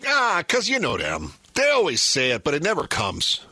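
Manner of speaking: imitating dad.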